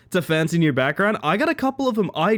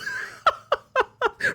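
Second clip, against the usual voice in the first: high cackling laugh. Real, not acted. Laughing at own rant.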